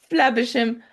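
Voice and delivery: lightly voiced villain menace; a hint of silky threat; imitating Ratigan. Fan quoting Ratigan to Flaversham, light mock menace.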